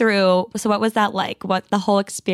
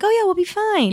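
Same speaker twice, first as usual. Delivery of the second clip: higher, carefree sing-song; host mocking how carelessly they ignored the storm warning; mock breezy; 9 semitones higher than usual. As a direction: play the naive confident past self. Mocking their past carelessness.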